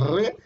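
"re" with a rolled, buzzing R; vibrating R. Shown as a demonstration. Teacher showing voiced sounds to student, vibrating R. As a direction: roll the R in "re" so it vibrates. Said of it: "vas a sentir cómo vibra".

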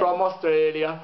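light put-on Swedish accent; a quick hint of a Swedish lilt. Sending birthday wishes from Australia in a mock Swedish accent. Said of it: "I put on a Swedish accent for that".

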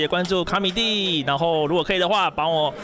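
slow, even announcer-style plug; promo sign-off. Acted. Comedian plugs his channels to viewers, slow promo read.

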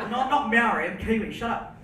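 laughing through the words. Real, not acted. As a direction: giggle while protesting. Joking correction while laughing.

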